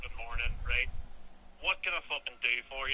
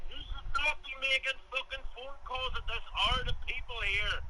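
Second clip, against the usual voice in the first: higher, heated telling-off; furious rant; 8 semitones higher than usual. Real, not acted. Englishman yells at the caller about the hour, furious. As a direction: give it to him with both barrels. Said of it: "He is mad".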